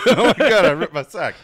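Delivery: high, loud re-enacted cry to mom; retold yell. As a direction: yell it through a laugh, replaying the panic. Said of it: "I heard you yell".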